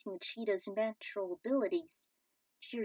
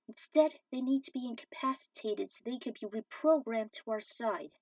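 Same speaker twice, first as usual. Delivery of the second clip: raised, insistent voice pleading to spare them; urgent plea; 3 semitones higher, 4 dB louder than usual. Acted. Hero overrules the mutant, raised and urgent. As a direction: push back hard, then steady. Hero argues against destroying machines.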